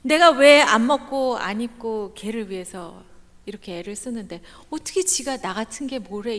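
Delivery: mock parent rant, loud then fading; angry parent. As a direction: scold a self-pitying child. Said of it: "부모들은 진짜 화나요".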